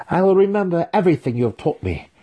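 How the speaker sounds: high, quick pledge from a student; earnest promise. A narrator's reading. Student pledging to his mentor mid-spar, eagerly. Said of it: "Drizzt promised".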